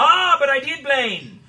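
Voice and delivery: high, loud gloating retort; triumphant cry. Acted. Doctor gloating at the captor, loud and high. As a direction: crow over him in triumph.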